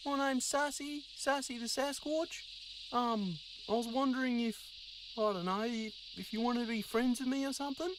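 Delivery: a timid Sasquatch hoping to make a friend; Sassy the Sasquatch. Acted.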